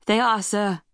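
put-on slightly piping young officer; reedy voice. A narrator's reading. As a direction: answer the captain in a thin, reedy voice. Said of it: "It was a reedy voice".

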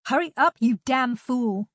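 impatient, alarmed cry; urgent yell. A narrator's reading. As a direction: yell at them to hurry. Urgent shout up to climber.

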